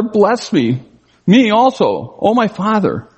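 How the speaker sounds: high, pleading cry of a son who knows it's too late; desperate plea. Acted. Esau begging his father Isaac for a blessing, pleading high. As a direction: beg for it, voice lifted and aching.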